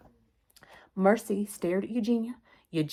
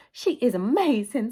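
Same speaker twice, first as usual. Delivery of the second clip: higher-pitched, slow marvelling; admiring gush; 5 semitones higher, 4 dB louder than usual. Acted. Missus Watson praises Mercy to her husband, gushing.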